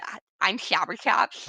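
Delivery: Slobber Chops. Shown as a demonstration. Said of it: "I just came up with".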